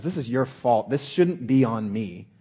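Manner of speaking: loud mock-angry blame; mad, worked up. Preacher acts out being mad at God, worked up and loud. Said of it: "he gets worked up and says".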